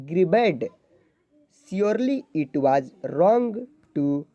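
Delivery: halting, very slow read-aloud; slow word-by-word reading. Shown as a demonstration. Teacher reading a paragraph to zero-level students, very slow and halting. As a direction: sound out each English word slowly for beginners.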